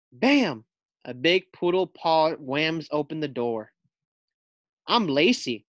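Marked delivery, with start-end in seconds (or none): 4.9-5.7 snarl. Acted. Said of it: "she snarls".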